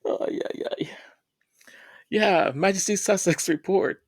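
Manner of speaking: breathy whisper after tears. Real, not acted. Host whispers to viewers while composing herself, whispered. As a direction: whisper it while steadying yourself.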